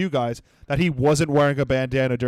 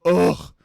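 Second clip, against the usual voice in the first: audible groan. Retold or imitated. Groaning at the woman's smug speech. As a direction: let out a fed-up groan. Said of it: "I literally audibly went".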